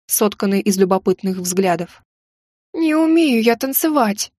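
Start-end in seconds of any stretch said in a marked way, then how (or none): 2.7-4.3 high, slow, tearful plea; sobbing. A narrator's reading. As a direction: sob it out pleadingly. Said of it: "всхлипнула я".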